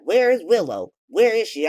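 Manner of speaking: loud, insistent mock interrogation; demanding. Drew busting in to find Willow, demanding. Acted demand to know whereabouts.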